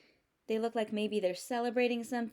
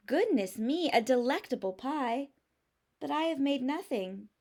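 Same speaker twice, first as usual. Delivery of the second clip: lightly voiced bear, a little higher; gentle bear, mildly sighing; a touch of a sigh; 3 semitones higher than usual. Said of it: "he adds with a sigh".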